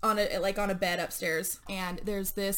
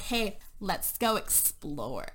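suggestive tease; much slower than usual. Retold or imitated. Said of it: "Brody and Taylor are just like".

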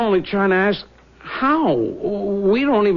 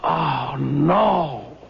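crying. Acted. Shock at hundred dollar bill.

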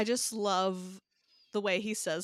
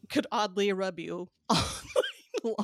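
tender laughing coo. Acted. Talking tenderly to toddler.

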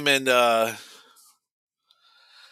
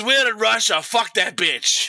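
raised, higher retelling of a brazen gangster; mock brash dismissal; 5 semitones higher, 3 dB louder than usual. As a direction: punch it out, dragging the final words. Igor dismisses the teacher, retold.

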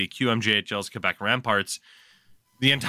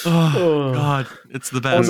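amused delight; 2 semitones higher, 5 dB louder, slower than usual. Real, not acted. Host cracking up at the impression.

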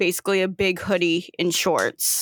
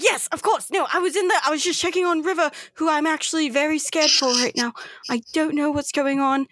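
higher, fast flustered chatter; flustered Winston; 6 semitones higher, faster than usual. Acted. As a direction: babble like a nervous fussy friend. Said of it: "He's like".

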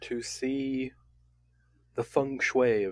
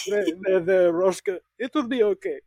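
put-on French accent; 5 semitones higher than usual. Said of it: "and he's like".

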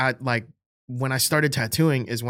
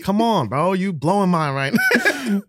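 put-on a bit higher, louder teen back-talk; mock rowdy student; 5 semitones higher, 3 dB louder than usual. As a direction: sass the teacher like a bored kid. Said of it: "then we'd be like".

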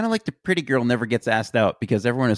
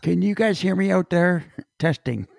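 turned away from mic; 5 semitones higher than usual. Real, not acted. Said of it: "you gotta talk into the microphone".

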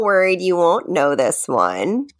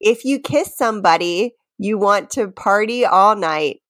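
reading lyrics aloud. Shown as a demonstration. To her friend, reciting lyrics as a quiz clue.

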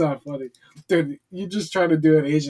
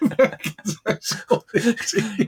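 slow, higher mock Asian accent; 6 semitones higher, slower than usual. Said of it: "his Asian accent he puts on".

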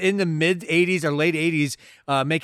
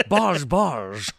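be a buzzing wasp about to sting; slower than usual. Pretend. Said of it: "He's a Scottish wasp".

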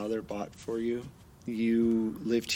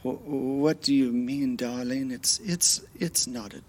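higher, tender worried husband voice; husband gently waking wife; 6 semitones higher than usual. Acted. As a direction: soothe her out of a nightmare. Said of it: "it's your husband in the bed".

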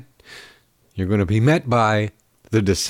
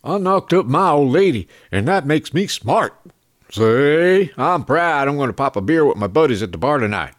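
a light Southern redneck put-on, higher; mock Southern redneck; 3 semitones higher than usual. Host mocks a redneck bragging, Southern accent. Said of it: "Southern rednecks".

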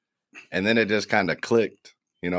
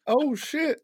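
surprised. Retold or imitated. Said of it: "I was like".

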